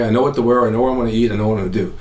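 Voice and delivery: usual speaking voice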